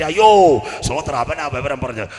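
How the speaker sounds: loud high startled exclamation; sudden realization. Acted. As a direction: blurt it out as it dawns. King suddenly remembers. (പെട്ടെന്ന് ഓർമ്മ വന്ന ഞെട്ടൽ)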